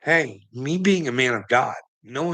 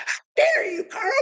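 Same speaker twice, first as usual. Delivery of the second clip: mock outraged shriek. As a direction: screech it like a scandalized lady.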